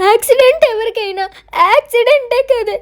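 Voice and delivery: mock tearful. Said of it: "నువ్వెందుకు ఏడవడం".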